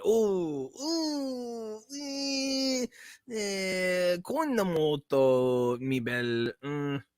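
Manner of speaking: very high, very slow mock Italian sighs; Da Vinci swooning at the Mona Lisa in falsetto Italian; fake Italian swooning. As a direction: swoon over the painting in falsetto. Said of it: "While he's painting the Mona Lisa".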